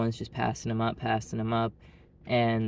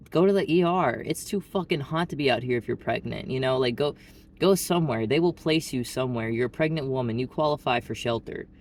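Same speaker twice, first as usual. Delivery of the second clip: exasperated inner urging; 2 semitones higher than usual. Retold or imitated. Urging an imagined pregnant beggar.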